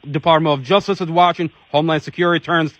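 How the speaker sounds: fervent outcry. Real, not acted. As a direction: hammer each accusation home like a rally speech. Advocate denouncing officers, rising fervour.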